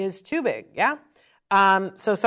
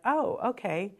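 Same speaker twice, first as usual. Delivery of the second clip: calm and collected; 7 dB quieter than usual. Retold or imitated. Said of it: "so calm and cool and collected".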